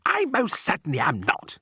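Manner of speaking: insulted outcry; indignant shout. A narrator's reading. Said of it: "he shouted".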